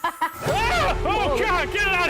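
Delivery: high, loud scared squeal; frightened shriek. Real, not acted. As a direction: yelp in alarm at the cat. Cat appears on set.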